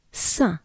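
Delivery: "Saint" as French, final consonants silent; French nasal vowel. Shown as a demonstration. Teacher modelling a recurring name part, French nasal vowel. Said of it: "we're looking for the sound A".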